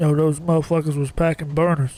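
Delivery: put-on, half-asleep, fat-sounding voice, nose held. Showing someone how to do the voice by holding their nose, use a nose-held, half-asleep fat voice. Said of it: "Hold your nose and just try to talk like you're half asleep, like a fat voice".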